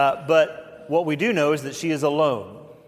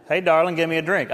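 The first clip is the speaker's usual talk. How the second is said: louder, hammed-up Southern accent; mock Southern accent; 3 semitones higher, 4 dB louder than usual. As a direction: put on a folksy Southern accent for a joke. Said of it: "I kinda think it's Southern".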